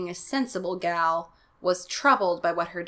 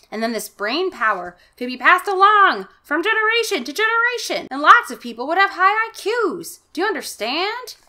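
lightly voiced mad scientist, higher; 3 semitones higher, 5 dB louder than usual. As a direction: explain it like an eager mad scientist. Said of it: "this is my mad scientist voice".

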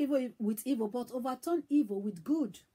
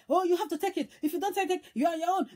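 retold brush-off; 5 semitones higher, faster than usual. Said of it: "has rained abuses on this bike man".

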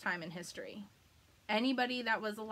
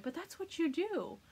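mocking quote; 8 semitones higher than usual. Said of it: "they're like".

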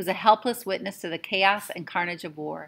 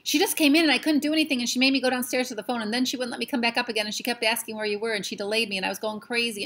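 higher, fast anxious babble; babbling boy; 4 semitones higher than usual. Acted. Patrick babbling to Omri in a rush. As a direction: tumble the words out in a rush.

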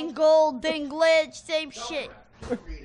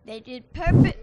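puppet voice; 2 semitones lower, 9 dB louder than usual. Acted. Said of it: "what was that voice".

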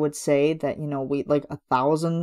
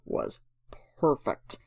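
whispered; 2 semitones lower, 8 dB quieter than usual. Real, not acted. Whispered praise.

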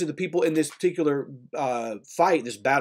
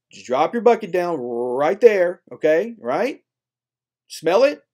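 condescending landowner; 4 dB louder than usual. Retold or imitated. Landowner telling thirsty sailors to stay put, mock patronizing. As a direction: keep them at a distance with a smile. Landowners dismiss ship with directions.

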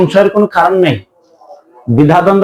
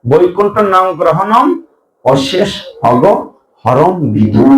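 verse recitation; 3 semitones higher, slower than usual. Acted.

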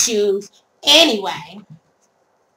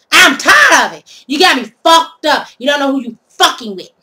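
angry rant; 3 semitones higher, 4 dB louder than usual. Real, not acted. Ranting at the thief who called the police on her, furious outburst. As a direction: let the anger boil over.

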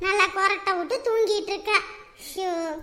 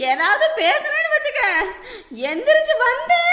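angry threat; 3 semitones higher, 4 dB louder than usual. Acted. Stuck patient threatening whoever scolded them, angrily shrieking. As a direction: shout a threat through the wailing.

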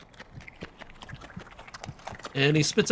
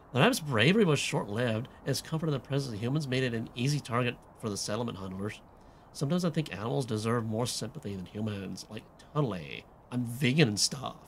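put-on valley girl slipping southern. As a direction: read it as a pretentious teen, drifting Southern. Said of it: "this does not sound like a valley girl".

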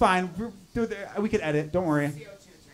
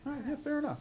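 easygoing; 7 semitones higher, 10 dB quieter than usual. Retold or imitated. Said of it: "be like".

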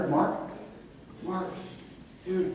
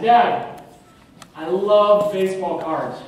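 loud, eager plea to dad; a boy pitching his big idea to his father; eager kid; 9 dB louder, slower than usual. Retold or imitated. Kid asking dad for money.

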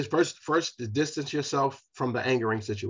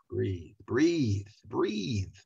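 calming breathe; 3 semitones lower, 3 dB quieter, much slower than usual. Shown as a demonstration. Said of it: "Take long, deep breaths".

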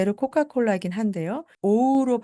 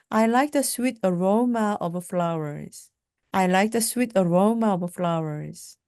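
slow, careful model sentence; deliberate classroom pronunciation; slow teaching drill; much slower than usual. Shown as a demonstration. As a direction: say it slowly for learners to repeat. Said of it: "slow model sentence drill".

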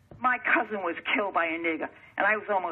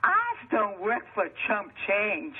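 mocking imitation; slower than usual. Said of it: "That's what they told me".

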